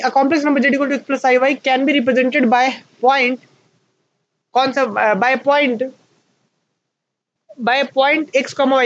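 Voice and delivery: reading a definition aloud very slowly for students to copy; teacher dictating notes at a crawl; slow dictation. Shown as a demonstration. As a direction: dictate it word by word, spacing each phrase.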